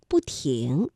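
"不" falling as bù before 停; 不 in fourth tone. Shown as a demonstration. Teacher shows learners the rule, "不" falling bù. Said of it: "那在这里不读四声不".

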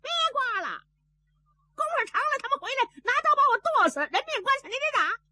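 high, rushed pleading squeal; Zhao Bi frantic. A narrator's reading. Zhao Bi begs the shopkeeper to stop scraping, high frantic plea. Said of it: "赵壁也急".

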